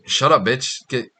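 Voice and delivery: "Shut up, bitch" tossed off casually, "outta here" rushed out fast; casual fast brush-off, not angry; blunt dismissive brush-off. Shown as a demonstration. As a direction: dismiss her like it's nothing, quick and offhand. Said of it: "the whole point is, like".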